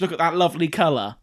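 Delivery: hammed-up shop worker admiring fish; over-sweet sales pitch; gushing server.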